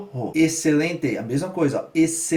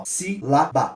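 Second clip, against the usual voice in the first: slow syllables; much slower than usual. Shown as a demonstration. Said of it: "Cada expiração".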